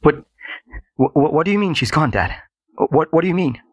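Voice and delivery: high, stammering questions; shocked disbelief. A narrator's reading. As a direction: stumble over the words in shock. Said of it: "He now had disbelief and shock".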